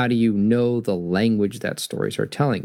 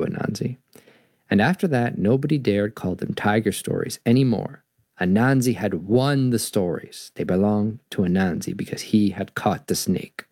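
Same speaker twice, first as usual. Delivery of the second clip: storybook reading. A narrator's reading.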